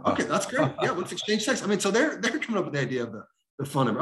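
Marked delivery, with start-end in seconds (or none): 0.1-1.6 chuckling through an easy okay; laughing agreement. Real, not acted. Evangelist answering stranger's suggestion, laughing lightly. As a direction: laugh it off, pleased.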